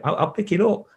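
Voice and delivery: choked up, pleading to be heard; emotional. Real, not acted. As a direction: voice pushed up high, close to breaking. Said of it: "I'm getting emotional now".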